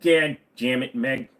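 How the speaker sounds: Peter Griffin voice. Retold or imitated. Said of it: "not very good with the Peter Griffin accent".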